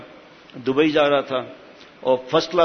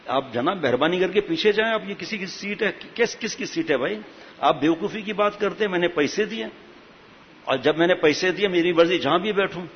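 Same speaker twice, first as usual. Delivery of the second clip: a touch of put-on indignation; mildly indignant passenger; 3 semitones higher than usual. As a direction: lightly act out an affronted passenger arguing back. Acted passenger arguing over his seat.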